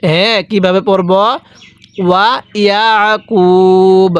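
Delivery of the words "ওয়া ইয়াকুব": ওয়া ইয়াকুব, slow, with the আইন pressed in the throat; throat-pressed ain. Shown as a demonstration. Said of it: "আইনটা পড়ার সময় আমি গলার মধ্যে চাপ দিয়ে পড়ছি".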